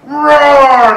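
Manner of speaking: big loud storyteller roar; lion roar. Acted. Waking lion roars at the little mouse, loud roar.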